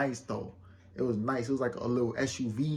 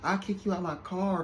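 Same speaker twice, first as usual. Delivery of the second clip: higher-pitched, lightly mimicked bougie attitude; mock bougie; 5 semitones higher than usual. Woman threatening to kick him out, mock bougie. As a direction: imitate her putting on airs. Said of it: "she was being all bougie and shit".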